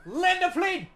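loud high yell at the sky; shouting at plane. Acted. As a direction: bellow up at a plane overhead. Yelling up at his plane.

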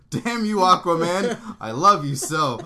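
loud, slow, hammed-up lament; dramatic yell. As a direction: wail it out theatrically. Mock dramatic cry to Aquaman.

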